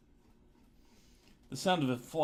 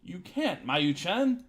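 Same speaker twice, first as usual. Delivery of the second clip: urgent shout; 7 semitones higher, 6 dB louder, slower than usual. Acted. Hiyoshi stops her turning back.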